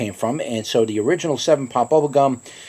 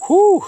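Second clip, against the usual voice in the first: high loud whew from the heat; sharp heat exhale; 7 dB louder than usual. Real, not acted. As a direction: blow out the burn, high. Pepper heat hitting.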